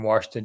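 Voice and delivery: "Washington" said "Warshington", R after the first vowel. Real, not acted. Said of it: "It's Washington with an R".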